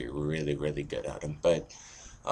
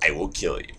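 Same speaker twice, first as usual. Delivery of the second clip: understated death threat; much faster than usual. Shown as a demonstration. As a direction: deliver a threat without raising the voice. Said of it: "basically the difference there".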